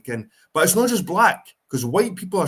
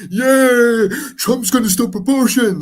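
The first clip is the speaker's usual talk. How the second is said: much higher, louder mock cheer; mocking Trump supporter; 9 semitones higher, 7 dB louder than usual. Mocking people who cheer Trump ending abortion in a high, loud voice. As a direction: ham up the gloating Trump fan. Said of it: "these people are like".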